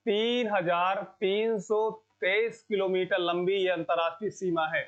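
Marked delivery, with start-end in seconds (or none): 0.1-3.6 deliberate, measured pace on each part of the number; slow dictation. Real, not acted. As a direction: spell the figure out slowly for students to remember. Teacher dictates figure to remember.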